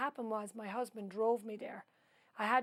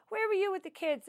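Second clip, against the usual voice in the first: accusing neighbour; 10 semitones higher, 5 dB louder than usual. Retold or imitated. Neighbour confronting her about kids.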